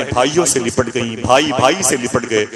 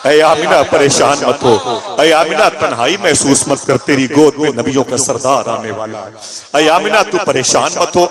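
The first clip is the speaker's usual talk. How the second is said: fervent preaching; 5 dB louder than usual. Acted. Unseen voice consoles Amina.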